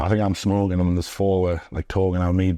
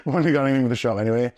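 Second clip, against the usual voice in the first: repeated quickly through a laugh; 4 semitones higher, much faster than usual. Shown as a demonstration. Repeating the shop line to the host, fast and laughing. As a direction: rush it out while laughing.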